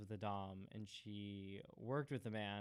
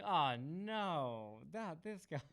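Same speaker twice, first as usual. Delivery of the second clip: higher, exasperated groan of recognition; mock bartender dismay; 6 semitones higher, 4 dB louder, much slower than usual. Bartenders spotting the leashed regular, higher mock dismay. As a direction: play a fed-up bartender seeing him again. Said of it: "they're like".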